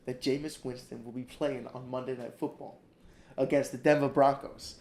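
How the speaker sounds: lightly voiced, mock-grateful quarterback impersonation; bad impersonation of an earnest athlete, starting soft; a hint of a quarterback's monologue; Jameis Winston imitation. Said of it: "that was a bad impersonation".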